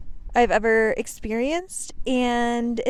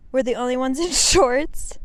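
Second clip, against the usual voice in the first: laughing while shouting over wind; 4 semitones higher, 6 dB louder than usual. Real, not acted. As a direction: breaks into a laugh mid-line. Laughing mid-sentence.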